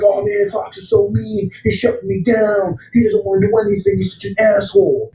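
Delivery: high mocking whine; whiny complainer. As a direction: mimic the whiners high and petulant. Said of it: "So everyone's like".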